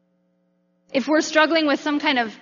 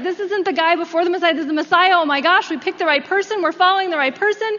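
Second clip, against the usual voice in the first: excited disciples; 4 semitones higher, 3 dB louder, faster than usual. Retold or imitated. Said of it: "real excited about it".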